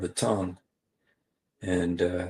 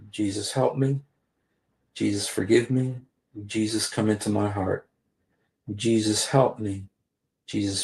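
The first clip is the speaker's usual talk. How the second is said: guided prayer. Acted. Leads viewers in a prayer.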